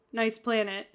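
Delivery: understated deadpan imitation; Worf's deadpan. Host quoting Worf's verdict on the planet, mildly deadpan. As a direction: say it drily, without any reaction. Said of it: "in his typical hilarious deadpan manner".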